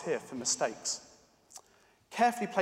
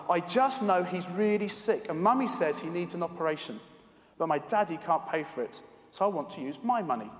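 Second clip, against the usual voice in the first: tearful. Acted. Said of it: "with her eyes welling up".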